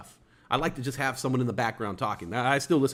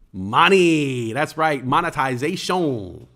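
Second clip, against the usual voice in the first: excited; 6 dB louder, much slower than usual. Real, not acted. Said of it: "celebrating subscribers".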